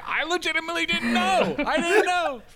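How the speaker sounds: high, hammed-up protest of innocence; mock defensive dad. Dad defending himself to the older brother, mock defensive. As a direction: plead ignorance in a squealing-high mock dad voice.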